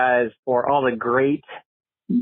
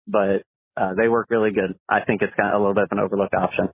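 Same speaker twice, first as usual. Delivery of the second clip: phone message playback; recorded caller on the line; voicemail. Real, not acted. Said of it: "let's see what Matt has to say".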